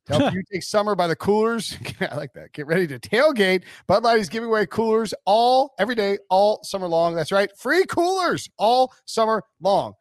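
upbeat radio ad announcer voice; ad read. Acted. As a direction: sell it like a peppy commercial. Continues the sponsor ad read.

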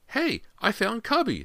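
put-on very high, slow little boy; child exclaiming. A narrator's reading. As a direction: exclaim happily in a tiny child's voice. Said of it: "they heard James exclaim".

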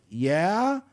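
hesitant, rising questioning yeah; drawn-out yeah lifting into a puzzled question; confused kid. Acted. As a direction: answer like an unsure, confused kid. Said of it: "the kid's gonna be confused".

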